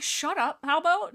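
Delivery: high, loud retort; mock snap. Midnight snapping at the rude clan cats, mock irritated. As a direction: snap back at them, half-joking.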